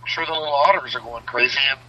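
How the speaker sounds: tinny, like talking in a tin can; inside a metal tank. Real, not acted. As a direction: sound boxed in and metallic. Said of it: "That really does sound like a tin can".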